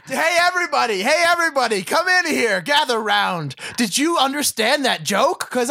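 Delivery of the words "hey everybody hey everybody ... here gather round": high, raised call to gather round; calling out to everyone. Pretend. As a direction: call the room over. Calling everyone over mockingly.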